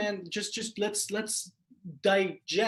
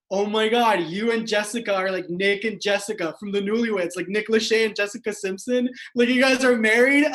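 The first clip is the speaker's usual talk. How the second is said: excited retelling; 4 dB louder than usual. Retold or imitated. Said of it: "but he's like".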